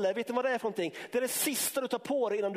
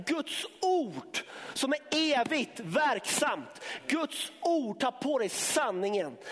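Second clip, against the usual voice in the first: shouted proclamation; 2 semitones higher, slower than usual. Real, not acted. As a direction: cry it out to the church. Preacher proclaiming God's word. (ropande predikan)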